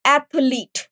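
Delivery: एथलीट said slowly, every sound laid out; model pronunciation. Shown as a demonstration. Teacher giving the final, careful model of एथलीट, said slowly. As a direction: spell out एथलीट with your voice, slow and clear. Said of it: "इसका जो pronunciation है वो ए से होगा".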